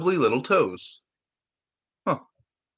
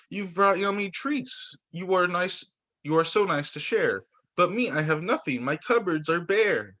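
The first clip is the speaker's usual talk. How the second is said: sad bear; 3 semitones higher than usual. Acted. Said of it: "Bear mutters and he stutters".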